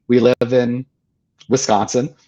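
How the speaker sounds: high, eager fan voice that settles toward plain. Retold or imitated. Stranger recognizing Wayne Dyer on the beach, eager and high. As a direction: greet him like a thrilled stranger. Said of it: "Someone walks up to him and says".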